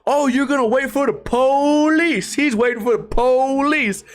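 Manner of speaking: high mocking drawl, lightly voiced; lightly hammed-up old man mocking. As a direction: tease him like a cranky old man. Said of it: "makes fun of the way he talks".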